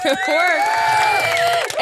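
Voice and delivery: high, drawn-out celebration; triumphant. Retold or imitated. Storyteller celebrating the unclogged toilet, high drawn-out triumph. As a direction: exult in it as if applauded. Repeats it amid mock applause.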